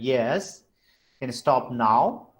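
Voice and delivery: questioning upward swoop; rising tone. Shown as a demonstration. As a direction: ask it, climbing at the end of YES and NOW. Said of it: "then we use rising tone".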